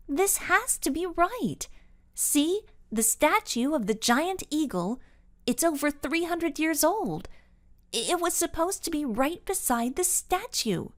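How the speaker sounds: high-pitched, pleading insistence; high voice, refusing to believe it; insistent girl. A narrator's reading. Carol insists the map is right.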